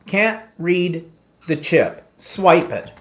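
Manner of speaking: slow, lightly imitated machine message; card machine's command. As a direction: read it out haltingly, word by word, like a terminal. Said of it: "and it says".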